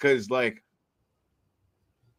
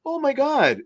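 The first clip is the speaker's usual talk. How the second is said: put-on squeaky "Oh my God" from a girl at the bar, pitched way up; high squealing mock girl; 12 semitones higher than usual. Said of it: "But when it was like".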